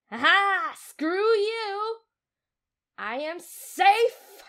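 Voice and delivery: loud, high gloating; triumphant taunt. Real, not acted. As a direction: crow in victory. Gloating at escape.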